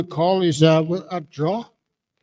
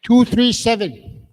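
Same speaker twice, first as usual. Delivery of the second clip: loud slow call; 5 semitones higher, 4 dB louder, slower than usual. Real, not acted. Host calling the winning ticket at the draw, loud and slow. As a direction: raise the pitch and call it out slowly, loud. Calling prize number to the room.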